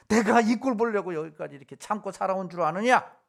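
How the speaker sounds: mock grievance of a quarrelling parent; lightly acted "after all I've endured" complaint; aggrieved outburst. Preacher imitating a parent whose children upset them, mildly aggrieved. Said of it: "억울한 일 당하면 막 부부싸움을 하거나".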